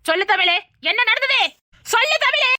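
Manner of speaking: put-on a mother fussing over her child; mock alarmed wailing. Mother fussing over her crying daughter, loud high wail. Mother demands what happened.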